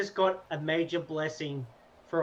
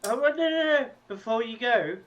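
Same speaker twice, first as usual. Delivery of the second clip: higher, louder urgent plea; 7 semitones higher, 6 dB louder than usual. Acted. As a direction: stop him before he goes. Player stops NPC leaving.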